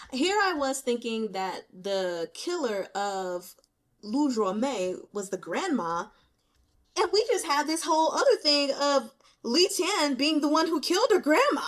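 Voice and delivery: rising to a loud, high, laughing disbelief; shocked the plot flipped on her, then cracking up; stunned disbelief. Real, not acted. Reader to viewers about the twist, loud laughing disbelief.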